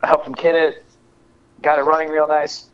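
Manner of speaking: talking through hiccups; hiccuping. Real, not acted. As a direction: hiccups breaking into the words. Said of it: "Oh, shit, I'm hiccuping".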